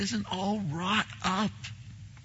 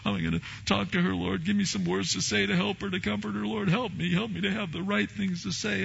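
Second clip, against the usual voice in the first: nervous prayer; 3 semitones higher, 4 dB quieter, much faster than usual. Retold or imitated. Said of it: "so I go cruising".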